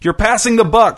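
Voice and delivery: high, heated accusing shout; shouted accusation. A narrator's reading. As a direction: raise your voice in blame. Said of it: "shouted Irvin".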